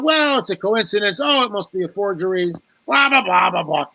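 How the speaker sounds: mocking skeptics. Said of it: "they dumb it down".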